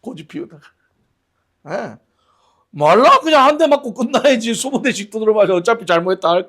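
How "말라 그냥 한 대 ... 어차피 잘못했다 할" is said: high, loud mock exasperation; exasperated loud scolding. Preacher scolding his stubborn brother, loud and exasperated. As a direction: push it like a frustrated big brother.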